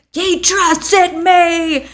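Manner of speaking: high, loud, long-drawn mock wail; mock crash out. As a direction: howl it slowly in hammed-up anguish. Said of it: "had this huge crash out".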